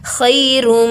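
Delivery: खैरुम with the म held nasal; recitation demo. Shown as a demonstration. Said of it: "रॉ को मीम से मिला रहे हैं".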